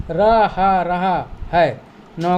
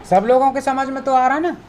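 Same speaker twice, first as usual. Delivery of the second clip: checking in; 5 semitones higher, much faster than usual. Real, not acted. Teacher checking understanding.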